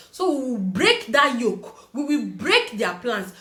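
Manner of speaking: slow, weighty pastor declaration; slow mock declaration. Pastor promising to break the curse, slow and weighty. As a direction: spell it out slowly like a deliverance promise.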